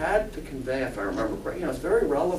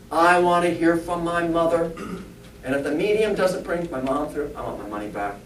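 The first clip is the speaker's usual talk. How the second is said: insistent, firm opening on a level pitch; acted demanding customer, starting louder; 4 dB louder than usual. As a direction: make a mildly pushy demand. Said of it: "Demanding things".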